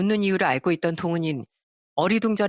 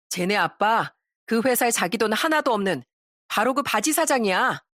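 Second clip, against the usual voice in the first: lightly acted knowing taunt; pointed storyteller's dialogue, a touch smug; mocking exposer. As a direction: reveal the dirty secret with relish. Narrator acts out accusing confrontation.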